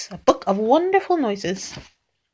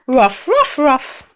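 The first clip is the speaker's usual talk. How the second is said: higher-pitched little dog ruffs; little dog bark; 4 semitones higher, 3 dB louder, slower than usual. A narrator's reading. Reader shows a child how little dogs go, high barks. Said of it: "little dogs go".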